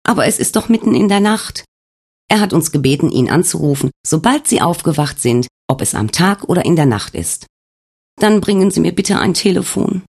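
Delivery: a frightened patient pleading for answers; Svenja's confused questions. Acted. Svenja begs the nurse to tell her, anxious and high.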